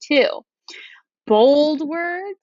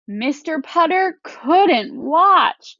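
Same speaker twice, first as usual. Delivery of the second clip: slow, higher, dismayed; disappointed; 5 semitones higher, 3 dB louder, slower than usual. Shown as a demonstration. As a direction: read it like you can't bear to look. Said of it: "I'm using that to change my voice to match".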